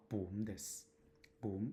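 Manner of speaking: 文 said as Cantonese "bun"; pronunciation demo. Shown as a demonstration. Teacher showing learners how 本 sounds, pronunciation demo. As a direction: model 文 with a "boon"-like vowel. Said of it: "これは発音は文です".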